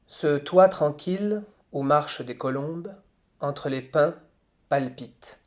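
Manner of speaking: measured, slow poetic reading; solemn reading of French verse; poem recitation. Acted. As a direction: let each line of the verse breathe. Recites the first stanza.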